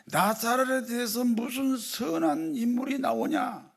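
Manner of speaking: high, drawn-out scoffing quote; mock sneer. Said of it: "이렇게 비아냥거렸던".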